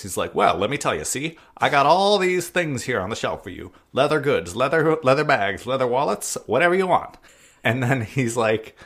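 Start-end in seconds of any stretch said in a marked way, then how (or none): 0.3-7.2 salesman patter in a put-on clerk voice; Peppy. New clerk selling to a customer, put-on salesman voice. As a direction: rattle off the wares, pitched up and emphatic. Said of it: "he uses a different voice. He uses, like, a lower voice".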